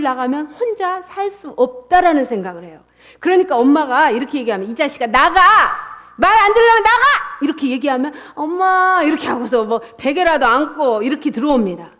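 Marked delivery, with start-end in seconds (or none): 4.7-7.0 mock mother yelling. Mother throwing child out. 8.3-9.0 put-on child calling. Small child crying to mom.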